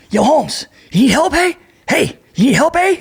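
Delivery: high, laid-back cholo street voice; cholo dude. Retold or imitated. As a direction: call it out like a friendly homie from a lowrider. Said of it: "some cholo dude".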